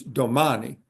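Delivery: "domani" with stress on the second to last syllable, do-MA-ni; Italian stress demo. Shown as a demonstration. Lecturer showing the Italian stress pattern on "domani". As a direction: lean on the MA in "domani". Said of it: "You stress the second to the last syllable".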